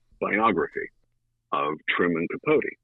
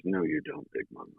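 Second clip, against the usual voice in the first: hushed denial; 7 dB quieter than usual. Retold or imitated. Truman retold denying love.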